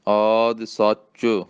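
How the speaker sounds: slow, ਸੱਚ clipped tight; ਸੱਚ ਕੱਸ ਕੇ. Shown as a demonstration. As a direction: press ਸੱਚ firmly. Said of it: "ਸੱਚ ਕੱਸ ਕੇ ਬੋਲਣਾ".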